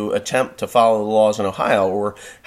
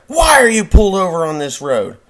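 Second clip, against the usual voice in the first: angry cop; 8 semitones higher, 7 dB louder than usual. Retold or imitated. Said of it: "He's like".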